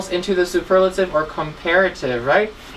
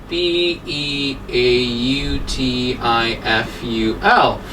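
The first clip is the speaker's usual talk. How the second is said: slow spelling out; 7 semitones lower, slower than usual. Shown as a demonstration. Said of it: "and then beautiful".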